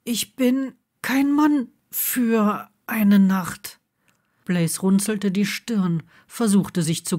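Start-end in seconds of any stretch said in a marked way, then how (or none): 0.0-3.8 slow, breathy, words in bursts; breathless whisper. A narrator's reading. Neville breathlessly insisting to Blaze he wants more. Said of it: "brachte er stoßweise hervor".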